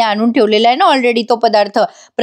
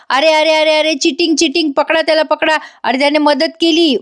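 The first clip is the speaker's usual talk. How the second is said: higher-pitched retold outcry, no real volume; mock yelling; 4 semitones higher than usual. Sarang protests to everyone that it is cheating, mock yelling. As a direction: imitate a protester calling out cheating. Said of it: "मोठ्याने ओरडायला लागतो".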